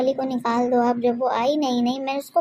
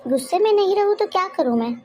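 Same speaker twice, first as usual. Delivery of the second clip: indignant and fed up, voice raised; angry reply; 4 semitones higher than usual. Acted. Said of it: "इतनी गुस्से में क्यों हो?". (पति को गुस्से से ऊँची आवाज़ में जवाब)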